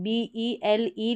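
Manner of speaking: बी ई एल ई slowly, letter by letter; spelled out slowly. Shown as a demonstration. Teacher spelling the letters for students, slow. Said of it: "इस तरीके से आप याद रखें".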